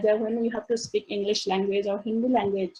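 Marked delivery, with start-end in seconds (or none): none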